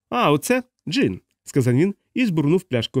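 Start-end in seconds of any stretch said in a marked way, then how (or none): 0.1-1.2 put-on slow, higher-pitched drunk; drunk man's voice. A narrator's reading. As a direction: draw it out as the tipsy character. Drunk man tosses gin away. (повільний п'яний голос)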